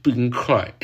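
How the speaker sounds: imitating Biao Ge. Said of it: "像吗？".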